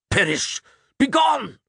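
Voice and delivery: priest's shriek. A narrator's reading. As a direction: shriek it like a curse. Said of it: "the priest shrieked".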